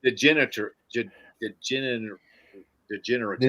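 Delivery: halting, broken attempts at "degenerative"; tongue-tied on the syllables of "degenerative"; getting mixed up. Real, not acted. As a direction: restart "degenerative" after each garbled try. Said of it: "mixed up in there".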